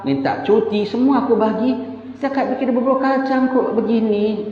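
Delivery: mock exasperation at a botched dish; annoyed boss. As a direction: play the fed-up boss scolding the cook. Angry boss voiced in anecdote.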